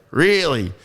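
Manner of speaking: high, loud amazed "Really?"; surprised. Retold or imitated. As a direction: act out the man's disbelief. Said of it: "And he's like".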